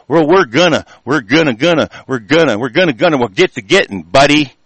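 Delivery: stammering, stalling mockery of empty promises; mock stalling politician. Ranting at politicians, mocking their stalling promises with mild stammering. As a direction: repeat "we're gonna" like a politician dodging. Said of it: "your fucking bullshit fucking".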